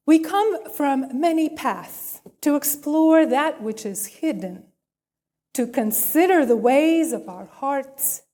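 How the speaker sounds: measured, solemn liturgical reading; formal call to worship. Acted. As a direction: read it like a blessing over the congregation. Reads call to worship aloud.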